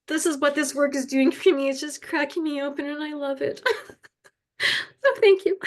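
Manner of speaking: choked-up voice breaking into a little laugh; real tears and relief at the end; tearful gratitude. Real, not acted. Thanking the group for work that cracks her open, tearful.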